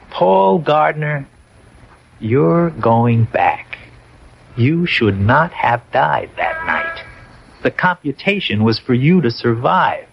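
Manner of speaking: slow, lightly voiced self-important clerk; fussy clerk. Dead clerk reading the returning soldier his orders, slow and prim. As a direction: spell out the verdict slowly, like a fussy official. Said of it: "self-important".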